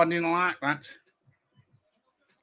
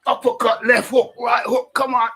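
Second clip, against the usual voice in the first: shadowboxing calls; 7 semitones higher, 5 dB louder than usual. Pretend.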